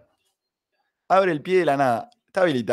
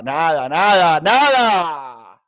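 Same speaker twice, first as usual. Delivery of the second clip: loud disbelief; 7 dB louder, much slower than usual. Real, not acted. Near miss at the line.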